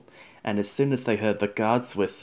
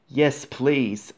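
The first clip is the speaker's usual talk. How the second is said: eager, lightly higher yes; mildly happy and keen; happily; 4 semitones higher than usual. Acted. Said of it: "answered James happily".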